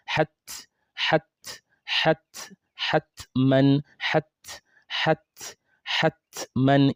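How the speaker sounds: hatman with the t at the front teeth; hat, crisp t at the gum front; forward ta sukun. Shown as a demonstration. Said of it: "It should hit the same place".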